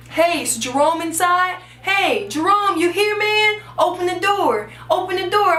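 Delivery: calling out. Acted. Stranger calling at the door.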